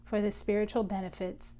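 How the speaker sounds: invocation in short phrases with long pauses; slow call-and-repeat prayer, phrase by phrase; slow, chopped-up prayer. Real, not acted. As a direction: say it slowly, leaving room to repeat after you. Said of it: "I'll say it slowly so that you can repeat after me".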